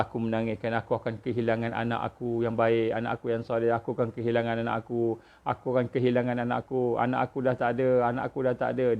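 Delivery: low, subdued monotone lament; retold tearful mother. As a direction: lightly imitate a grieving mother, softly. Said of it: "Dia pun menangis". (tiruan ringan ratapan ibu, rendah dan perlahan)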